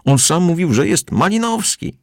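high indignant outburst. A narrator's reading. Captain indignant at being contradicted, high-pitched. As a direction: protest in outrage. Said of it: "oburzył się kapitan".

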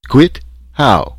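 put-on high, loud, concerned German-accented questions; solicitous German engineer. A narrator's reading. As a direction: cut in anxiously with a German accent. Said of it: "Poots was solicitous".

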